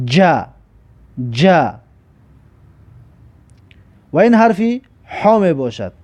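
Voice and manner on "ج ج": "ج" sounded as "ja"; jim with fatha. Shown as a demonstration. Teacher models jim with fatha for learners, "ج" as "ja". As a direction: say "ج" as a separate syllable "ja".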